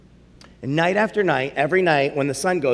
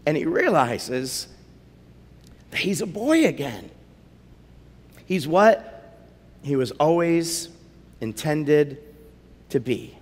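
tender; 3 dB quieter than usual. A narrator's reading. Story's tender ending.

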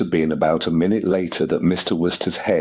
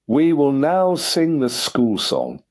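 higher and slow, icy and clipped; icily; 9 semitones higher, slower than usual. A narrator's reading. Headmistress shutting down the guest, icily. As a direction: end the matter with frosty dignity. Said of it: "said Miss Tomlinson icily".

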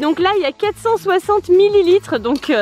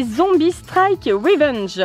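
English accent; much slower than usual. Shown as a demonstration. Mum showing the zombie blasters, in an English accent. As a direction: read "Zombie Strike Revenge" like an English speaker, slowly. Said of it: "Super accent anglais de maman".

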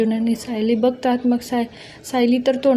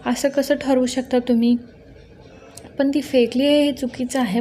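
lawyer style. Retold or imitated. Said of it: "वकिलांच्या स्टाईलने बोलते".

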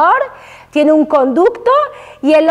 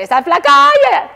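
higher, teasing mock jab; mocking remark; 10 semitones higher than usual. A woman needles another about looking thin, teasing. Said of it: "me dice".

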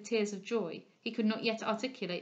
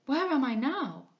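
slow, higher and louder, pitch swooping; calling out; 4 semitones higher, 5 dB louder, slower than usual. A narrator's reading. Waking patient looks round her, calling out. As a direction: call out slowly on waking. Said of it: "called out".

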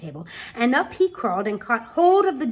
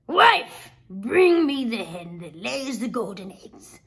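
a hint of a bossy giant giving orders; ogre commanding his wife; 4 dB louder, slower than usual. Ogre orders his wife to bring the hen, lightly gruff. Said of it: "the ogre said".

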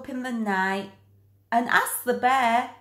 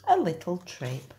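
coy bear; 4 semitones lower, 4 dB quieter than usual. Acted. Bear answers coyly.

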